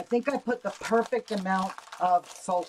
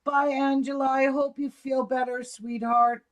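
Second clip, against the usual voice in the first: raised, higher calling-out voice; 7 semitones higher, 6 dB louder than usual. Real, not acted. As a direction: call it across the room. Calling goodbye to departing friend.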